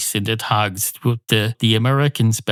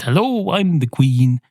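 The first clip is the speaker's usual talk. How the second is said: mock queen; 4 semitones higher than usual. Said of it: "she came along one day and said".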